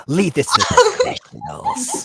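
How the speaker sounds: high laughing shout. Acted. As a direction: belt it out mid-laugh. Mock-bragging to brother Snape.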